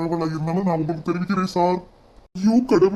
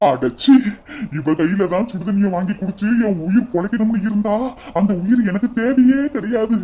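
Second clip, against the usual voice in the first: angry refusal; 2 semitones higher than usual. Acted. Husband refusing water from the daughter-in-law, rising angry outburst. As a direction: spit out the refusal, building to a cry.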